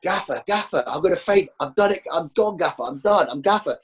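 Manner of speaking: exhausted player tells the manager he's done, mock faint. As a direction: play him as wilting in the heat. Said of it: "Trace is going".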